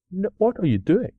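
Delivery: a high, exasperated "what are you doing"; exasperated cry. Retold or imitated. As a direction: scold the keeper in disbelief. Goalkeeper palms ball out.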